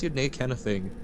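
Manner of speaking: lightly put-on Scots lilt; a hint of Scots, playful; a half-hearted Scots burr; mock Scots. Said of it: "if I spoke Scots".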